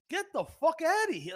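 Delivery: high, loud scoffing dismissal; incredulous outburst. Real, not acted. Comic ranting about Disney lines, loud scoff. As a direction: scoff it off in disbelief.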